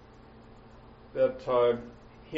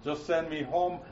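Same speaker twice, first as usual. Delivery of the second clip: mild mock pleading, pitched up at first; pestering; 3 semitones higher than usual. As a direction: nag insistently, easing off toward the end. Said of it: "He didn't keep pestering Jesus".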